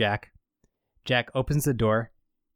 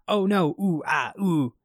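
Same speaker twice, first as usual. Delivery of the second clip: mock panic; 6 semitones higher than usual. Retold Jack reacting in panic.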